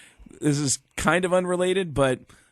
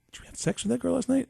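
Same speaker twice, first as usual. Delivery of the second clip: crew guy's question; 10 semitones higher, 4 dB quieter, faster than usual. Retold or imitated. Crew guy asking Gene, retold.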